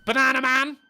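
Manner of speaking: hammed-up kids' show announcer; cartoon announcer. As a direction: call the title like a cartoon intro.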